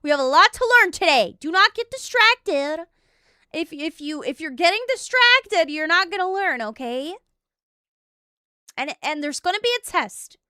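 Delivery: emphatic classroom telling-off; mock strict teacher. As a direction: scold a distracted class, playfully. Plays teacher addressing a class.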